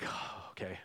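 breathless whispered dread; dad whispering to himself while searching for his missing son. Retold or imitated. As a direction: whisper it as panic sinks in.

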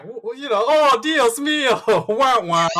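high, hammed-up mock wailing; drawn-out, whiny put-on dismay; Rodgers. Host mimics Rodgers on Jeopardy, mocking and high. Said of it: "And Rodgers is like".

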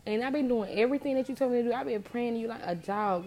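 petulant prayer; whiny complaint. Retold or imitated. Old self complaining to God.

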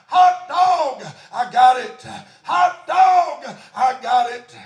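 hot dog, hollered with glee; joyful shout. Retold or imitated. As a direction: shout it out like a man just saved. Crying out all the way home.

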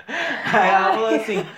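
ordinary talk

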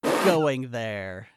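slow, emphatic headline read; punched, drawn-out magazine headlines; reading out cover lines. Retold or imitated. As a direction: announce each lurid tagline with relish. Reading porno mag cover lines.

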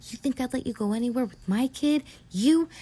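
husband mocking wife he'd never trust; scornful retort. Husband sneering at wife over their kid.

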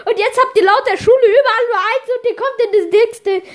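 laughing while announcing. Acted. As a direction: laugh through the big reveal. Teacher announcing grades, laughing.

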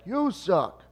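high mock yell thrown right back; retold yell back. Yankees fan yelling back at the Mets fan, high mock yell. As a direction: fire the insult straight back. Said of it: "that guy yells back".

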